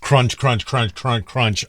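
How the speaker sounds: spoken crunch crunch, imitating someone eating; mock crunching noise. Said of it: "I'm eating".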